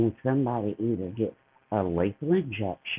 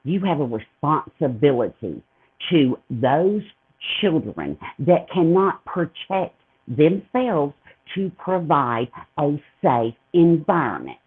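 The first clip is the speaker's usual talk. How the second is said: louder, higher, slow and emphatic; impassioned; 3 semitones higher, 4 dB louder, slower than usual. Real, not acted. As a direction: hammer home each word. Impassioned rant about custody.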